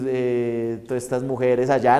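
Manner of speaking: normal talking voice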